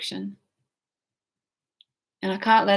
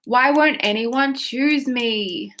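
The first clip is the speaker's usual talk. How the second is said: very slow, stretched-out whine; exaggerated whiny plea; 2 semitones higher, much slower than usual. Shown as a demonstration. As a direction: drag each word out in self-pity. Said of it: "Get whiny".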